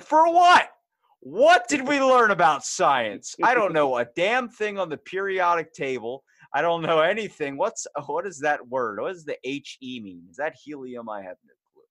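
panicked outburst. Retold or imitated. Student panicking at surprise quiz, shrill then fading. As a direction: blurt it out in shock, then trail off. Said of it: "And I'm like".

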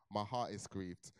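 mock grief. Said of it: "That was the language I was using".

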